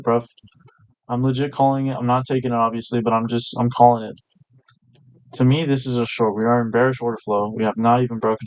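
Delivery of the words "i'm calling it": emphatic. Real, not acted.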